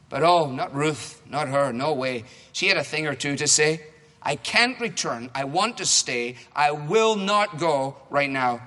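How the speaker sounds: rhymed storybook reading to a congregation; reading a story. Acted. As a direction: read it like a picture book for kids. Reading Naomi's and Ruth's rhymes.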